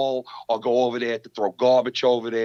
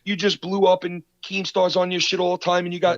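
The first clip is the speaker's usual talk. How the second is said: high-pitched mock begging; mock pleading; 6 semitones higher than usual. Podcaster acts the rebuttal his rival expected, mock pleading. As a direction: plead in a higher voice, hammed-up and helpless. Imagined begging reply, mocked.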